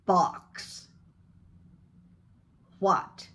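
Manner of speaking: jaw dropped for "Ah", "on", "box"; open ah vowel demo. Shown as a demonstration. Coach drills students on open ah words. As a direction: model a wide open "Ah". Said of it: "Drop your jaw".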